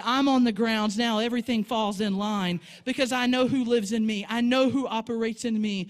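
loud, confident proclamation; bold declaration. Pretend. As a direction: declare it with full authority. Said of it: "rise up and say".

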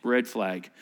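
low, knowing mutter of red flag; suspicious warning. Retold or imitated. Congregation sensing the trap, low and wary. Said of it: "how many of you are going".

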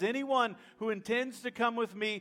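loud, slow, weighted declaration; tense Jesus. Retold or imitated. Jesus tells the crowd who must lead, tense and forceful. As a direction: lay down the law to the crowd word by word. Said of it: "hear the tension in his voice".

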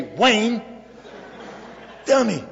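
high, loud raspy scolding call. Retold or imitated. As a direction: rasp it out, teasing and fond. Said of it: "I heard this raspy voice".

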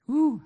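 loud high whoop; a big excited cheer. Real, not acted. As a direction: whoop her up to the front. Cheering a guest onto stage.

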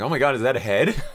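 high, loud pretend alarm; mock shock. Neighbor spotting a head on a pike, mock horrified cry. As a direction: gasp it like an appalled onlooker. Imagined neighbor sees heads on pikes.

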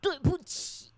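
put-on high small-boy sorry; lightly voiced child saying sorry; child's apology. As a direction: chirp it like a little kid giving in. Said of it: "好，那你道歉啊".

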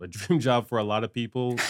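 ordinary talk

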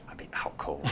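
drowsy whisper, as if nodding off; sleepy whisper. Retold or imitated. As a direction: fade into a hushed bedtime voice. Imagining Morgan Freeman bedtime story.

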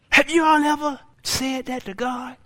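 ordinary talk, nothing marked

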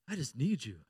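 soft, low prayer; quiet plea. Acted. Believer saying to God what he sometimes prays, quiet plea. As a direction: drop to a hushed, low plea.

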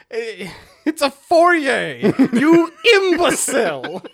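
high, drawn-out mock southern indignation; hammed-up southern scolding through laughter; southern accent. Wizard scolding visitor in his foyer, southern accent. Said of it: "southern accent".

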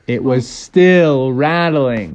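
slow storytelling reveal on STILL; drawn-out suspense. A narrator's reading. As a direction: STILL stretched long and slow.

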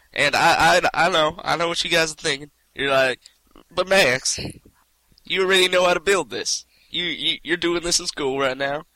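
put-on southern accent. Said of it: "describe a mechanical device in a southern accent".

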